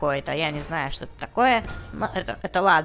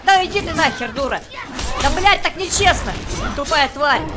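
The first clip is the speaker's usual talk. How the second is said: angry; 4 semitones higher, 3 dB louder than usual. Real, not acted. Злится, что проигрывает.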